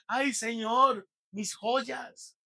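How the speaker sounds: mock fussing. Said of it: "Uno no dice".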